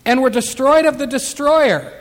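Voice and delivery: preacher reading scripture aloud. Acted. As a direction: proclaim the verse firmly from the pulpit.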